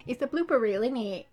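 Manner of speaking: put-on playful English accent on a tag question; mock English accent. Joking about the blooper reel, mock English accent.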